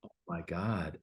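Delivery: soft, breathless whispered dread; panicked whisper. Retold or imitated. Speaker overhearing he's unknown, whispering in dread. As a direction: whisper it like your stomach just dropped. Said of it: "And I'm like".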